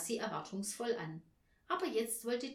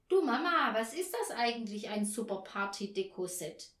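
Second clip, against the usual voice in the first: put-on puzzled child; 2 semitones higher, 4 dB louder than usual. Girl asks Mama about a catalogue item, curious.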